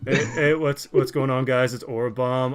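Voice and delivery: mock super-chill monotone intro; Aura. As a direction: stretch it out lazily, parodying a laid-back co-host. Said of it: "like, always super chill".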